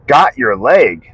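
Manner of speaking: slow, disbelieving question; incredulous echo. Retold or imitated. Son repeating dad's words back, slow and incredulous. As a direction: echo it slowly with a big swoop on the words.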